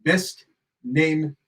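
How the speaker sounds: slow, lightly voiced cartoon pedant; hint of a drawn-out pedantic verdict; Comic Book Guy. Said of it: "to go comic book guy".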